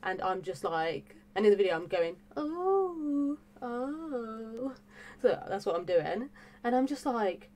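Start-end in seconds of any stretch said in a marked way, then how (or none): 2.4-4.7 high, drawn-out mock "oh"; imitating her own astonished oohs; amazed reaction. Showing what she did in the video, amazed.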